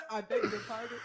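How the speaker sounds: scandalised outcry; shocked. Real, not acted. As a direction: gasp out the question in shock. Shocked at the name.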